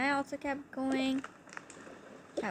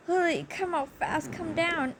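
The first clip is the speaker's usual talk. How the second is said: urgent call; 5 semitones higher than usual. Retold or imitated. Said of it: "I said".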